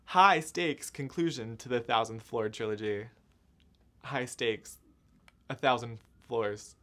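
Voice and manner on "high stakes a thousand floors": slow, dry deadpan delivery; deadpan joke. Shown as a demonstration. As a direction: say it slowly, waiting for a laugh. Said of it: "There's no one here to laugh at my joke".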